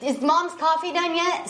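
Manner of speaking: lightly voiced kid checking for mom; drawn-out, high kid question; kid relaying a question. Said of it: "send one of the kids in".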